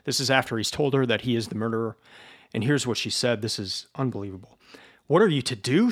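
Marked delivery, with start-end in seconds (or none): 5.1-5.9 rising, louder burst of hope; sudden hopeful outburst; eager cry. Acted. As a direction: cry it out, springing to her feet. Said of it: "she cried, jumping up".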